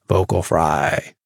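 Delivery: the words "vocal fry" dropped into a creaky fry. Shown as a demonstration.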